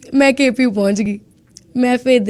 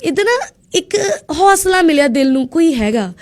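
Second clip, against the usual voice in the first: voice breaking; 4 semitones higher than usual. Real, not acted. Recalling kindness far from home.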